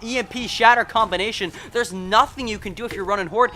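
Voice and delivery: fired up over the combo; excited call. Real, not acted. Caster hyped by combo play.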